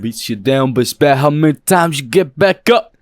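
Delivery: mock-rousing pep talk, builds to a big finish; motivational speaker voice. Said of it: "like, motivational speaker voice".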